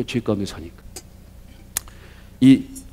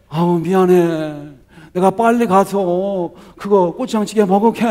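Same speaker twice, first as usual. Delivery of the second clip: gentle apology; 4 semitones higher, slower than usual. Retold or imitated. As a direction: apologize tenderly and promise to come. Husband softened, apologizing to wife. (마음 풀린 남편이 아내에게 하는 부드러운 사과)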